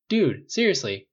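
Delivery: high, loud competing calls; overlapping shouts. A narrator's reading. Friends shouting movie picks over each other, loud and high.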